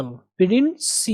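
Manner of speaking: प्रिंसी drawn out slowly; slow, stretched प्रिंसी; stretched syllable. Shown as a demonstration. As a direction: pull प्रिंसी long and slow. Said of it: "यहाँ पे आप खींचेंगे".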